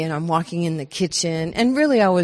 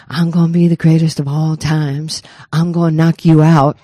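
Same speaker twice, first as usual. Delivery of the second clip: put-on loud boasting as a kid; kid's boast; 8 dB louder than usual. Young daughter boasting loudly to her mother, shouting. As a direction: shout it like a fearless little girl. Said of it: "and I go".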